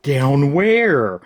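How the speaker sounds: drawn-out mock-clueless question; mocking, slow-witted echo; dense idiot. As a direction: imitate a dim man, stretching "where". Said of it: "what's this dense idiot say".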